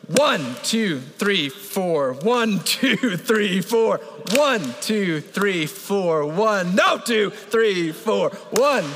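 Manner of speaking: steady cadence. Shown as a demonstration. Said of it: "Here we go".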